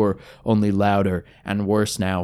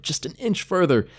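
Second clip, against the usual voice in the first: straining; 6 semitones higher, 3 dB quieter than usual. Acted. Straining to reach the sword.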